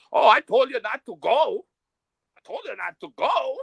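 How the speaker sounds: high mock woman's voice, I-told-you-so; he mimics her scolding him, high and mocking. Quoting the woman's scolding reply.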